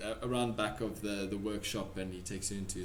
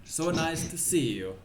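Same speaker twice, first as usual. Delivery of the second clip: put-on higher, struggling Russian accent; 4 semitones higher than usual. Pavlov welcoming an acquaintance, struggling Russian accent. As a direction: greet warmly in an unsure Russian accent. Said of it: "I'm still struggling with it".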